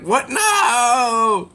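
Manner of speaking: high laughing what no; laughing protest. Acted. Demon dragged to the tea party, high protest through laughter. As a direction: cry out high while breaking into a laugh.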